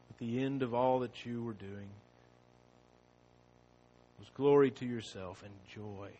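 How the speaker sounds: soft, hushed pastoral prayer; low reverent prayer voice. Acted. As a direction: pray quietly and earnestly to God. Pastor leads opening prayer.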